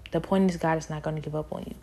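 fast, firmer restatement. Real, not acted. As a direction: rattle the point off again.

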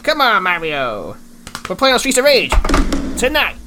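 loud, high, excited cheer; hyped shout. Acted. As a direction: cheer it out at the top of your voice.

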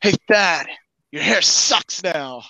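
mocking taunt, drawn out at the end; vicious mockery. Player casting an insult spell at Thad, mocking. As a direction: jeer at him, stretching the last words. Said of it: "that's gonna be vicious mockery".

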